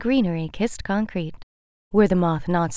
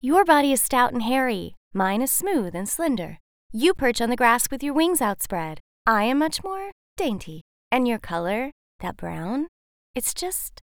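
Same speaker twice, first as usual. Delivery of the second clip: butterfly refusing the moth, higher and haughty; 5 semitones higher than usual. Acted. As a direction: turn up your nose at him. Butterfly character voice.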